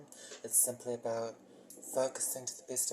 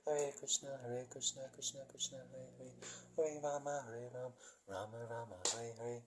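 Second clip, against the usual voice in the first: softer, measured recitation of the mantra; slowly; 7 dB quieter than usual. Shown as a demonstration. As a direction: say the chant slowly and quietly. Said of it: "one more time slowly".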